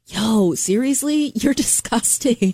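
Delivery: slow, drawn-out mock disgust. Worker reacting to a manager, drawn-out disgust. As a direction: drag it out in disbelief.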